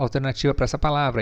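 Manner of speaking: ordinary delivery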